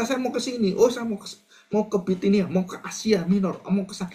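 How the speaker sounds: high, far-off mocking voice of a stubborn planner; mock Paul. Preacher mimicking Paul's plans to the congregation, high mocking tone. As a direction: play Paul listing where he wants to go, a bit silly.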